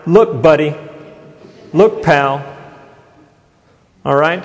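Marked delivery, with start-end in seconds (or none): 0.0-2.4 disrespectful. Retold or imitated. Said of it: "It has the idea of kinda like".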